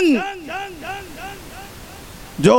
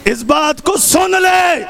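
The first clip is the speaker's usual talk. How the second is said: slow, stretched-out declaimed challenge; Zainab, defiant warning; much slower than usual. Retold or imitated. Zainab confronting Yazid, slow defiant shout. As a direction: call the tyrant to attention, drawing out each word. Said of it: "علی کے لہجے میں کہا".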